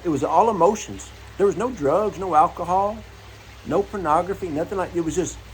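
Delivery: ordinary talk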